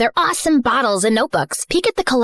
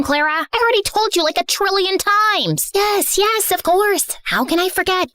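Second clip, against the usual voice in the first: ordinary talk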